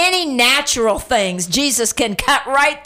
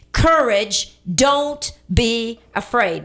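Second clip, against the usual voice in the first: said along with listeners; slower than usual. Shown as a demonstration. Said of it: "please say it with me".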